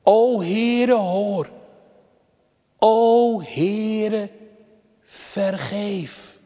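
solemn, almost chanted supplication; urgent intercession. Retold or imitated. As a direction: call out to God, stretching each plea. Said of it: "deze dringende voorbede".

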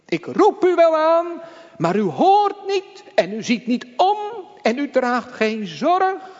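lamenting cry. Retold or imitated. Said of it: "Hij spreekt het in hoofdstuk één uit".

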